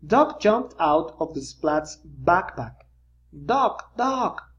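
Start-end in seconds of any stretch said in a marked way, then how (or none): 3.5-4.5 calling Doc. A narrator's reading. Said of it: "yelled Splat".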